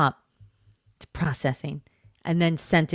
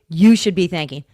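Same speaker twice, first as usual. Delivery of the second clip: mocking quote; 2 semitones lower, 7 dB louder than usual. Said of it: "and say".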